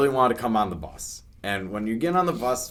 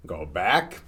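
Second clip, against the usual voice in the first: normal talking voice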